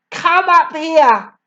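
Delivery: high, loud slow command; shouted. A narrator's reading. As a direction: shout him up to the stage. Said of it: "the Trunchbull shouted".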